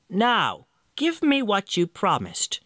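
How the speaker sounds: high, insistent imp voice; demanding little man. Acted. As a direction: claim the debt with glee.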